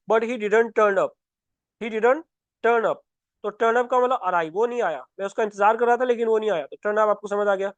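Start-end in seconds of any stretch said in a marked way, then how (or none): 0.1-3.0 very slow, word by word dictation; slow example sentence. Shown as a demonstration. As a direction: spell out the example slowly for students. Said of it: "मैं बोल रहा हूँ कि".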